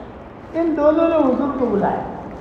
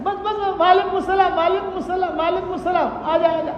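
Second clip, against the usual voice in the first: higher and much softer, soothing; softly reassuring, higher and hushed; tender reply; 4 semitones higher, 4 dB quieter than usual. Retold or imitated. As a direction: hush her kindly, like calming an elder. Prophet gently answers old woman.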